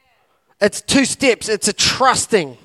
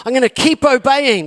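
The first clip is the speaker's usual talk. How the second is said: loud and resolute, a rising push forward; fired-up vow to keep going; determined declaration; 6 semitones higher, 4 dB louder than usual. Pretend. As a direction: declare it like you refuse to fall. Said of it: "And you're like".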